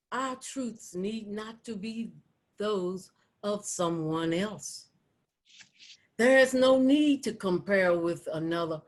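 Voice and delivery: deliberate poetry reading with spaced phrases; poem read out, building in firmness then settling; poem recitation. Acted. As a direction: recite each line as a measured declaration. Recites her second poem.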